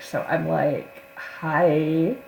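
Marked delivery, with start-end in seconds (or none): 1.2-2.2 sweet and sarcastic. Retold or imitated. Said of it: "sweet and sarcastic".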